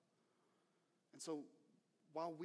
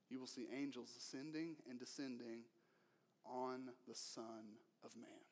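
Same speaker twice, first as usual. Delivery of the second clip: the correct reading; 3 semitones lower, 6 dB quieter than usual. Shown as a demonstration. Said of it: "that's not what he says".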